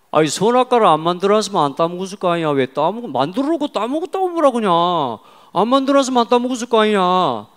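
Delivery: loud, high-pitched Jeolla-dialect rant. Retold or imitated. Schoolboy challenging his friend about Eden, heated Jeolla dialect. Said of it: "전라도 말로 갈게요".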